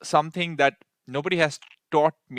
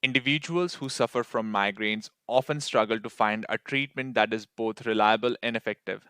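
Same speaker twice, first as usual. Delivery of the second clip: fluent read aloud demo. Shown as a demonstration. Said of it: "Three seconds left. Take a deep breath".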